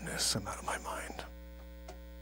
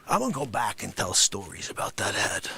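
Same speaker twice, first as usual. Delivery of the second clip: said through a laugh, low; laughing retake of the line; 10 semitones lower, 3 dB quieter than usual. Acted. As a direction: crack up while saying it.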